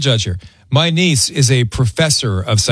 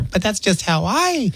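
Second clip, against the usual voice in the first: softer, slow mock wife; imitating wife; 3 semitones higher, 4 dB quieter, slower than usual. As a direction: say it lightly sheepish like the wife. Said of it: "And Leilani's sitting there".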